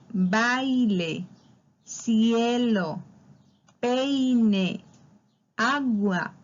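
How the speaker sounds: each word sounded out separately, vowel pair stretched; teacher dwelling on the diphthong in baile, cielo, peine, agua; carefully enunciated example words; demonstrating diphthongs. Shown as a demonstration. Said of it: "Aquí vemos los diptongos".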